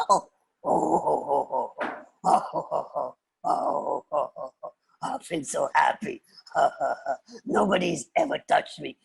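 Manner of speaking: chuckling ohs building to emotional confession; overwhelmed lion, half laughing, half tearful; shocked, moved lion. Acted. Lion touched by the girl's stroking, overwhelmed. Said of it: "The lion was shocked".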